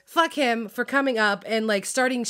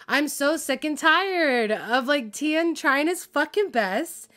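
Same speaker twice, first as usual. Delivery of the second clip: slow, higher, pressing rant; real frustration; 5 semitones higher, slower than usual. Real, not acted. Fan defending Tien, slow exasperated rant. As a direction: drag each word out in exasperation. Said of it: "I'm sorry I'm being really aggressive".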